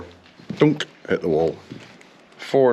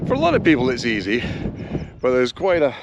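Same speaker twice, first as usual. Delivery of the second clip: wind on mic. Real, not acted. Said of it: "Again, sorry about the wind noise".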